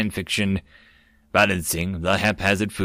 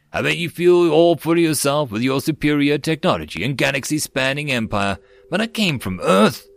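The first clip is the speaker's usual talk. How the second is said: triumphant; 4 semitones higher than usual. Acted. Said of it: "the human declared triumphantly".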